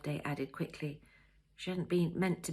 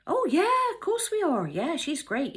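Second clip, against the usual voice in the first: much higher, louder, caught out; flustered surprise; 12 semitones higher, 9 dB louder than usual. A narrator's reading. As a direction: blurt it too quickly. Jessie caught off guard.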